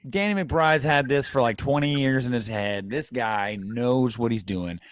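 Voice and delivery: sarcastic praise; feigned faith in the man's grand plan. Real, not acted. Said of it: "I'm being sarcastic, guys".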